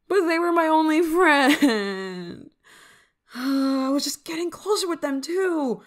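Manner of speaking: high, drawn-out wail. Acted. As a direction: bawl melodramatically over your only friend. Wailing over lost only friend.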